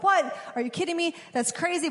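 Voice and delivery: the king can't believe his ears; mock stunned disbelief; shocked king. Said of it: "The king is like".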